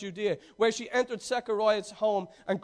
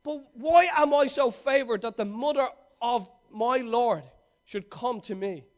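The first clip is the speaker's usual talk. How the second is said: loud exclaiming; 2 semitones higher, 4 dB louder than usual. Acted. Elizabeth greets Mary, exclaiming loudly with joy. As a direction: lift it out like a joyful cry of blessing. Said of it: "in a loud voice she exclaimed".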